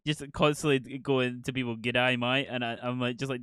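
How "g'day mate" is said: quick mock-Australian greeting; Australian accent. Retelling how they constantly greeted people, mock Australian accent. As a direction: toss out a jokey Aussie accent. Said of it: "I could do an Australian accent perfect".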